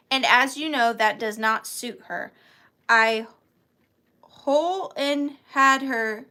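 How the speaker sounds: lightly put-on Southern accent. Seller reads a parent's consent letter, Southern accent. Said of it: "read it in a real Southern accent".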